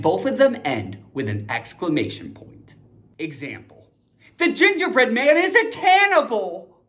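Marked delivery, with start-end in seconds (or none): 4.4-6.8 dramatic. Acted. Dramatic example read.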